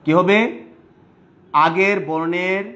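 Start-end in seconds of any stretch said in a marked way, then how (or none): 1.5-2.6 drawn out slowly, word by word; slow, deliberate teacher delivery; slow teaching emphasis. Shown as a demonstration. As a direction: spell it out slowly for the class. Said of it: "দ্বিত্ব উচ্চারণ".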